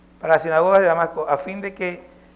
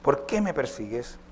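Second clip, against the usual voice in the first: lightly voiced divine call, low and softer; voice from heaven; 5 semitones lower, 6 dB quieter, slower than usual. A narrator's reading. Preacher reads Jesus calling to fallen Saulo, lightly voiced heavenly call. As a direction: let the repeated name drop lower, a restrained heavenly voice. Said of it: "oyó una voz que le decía".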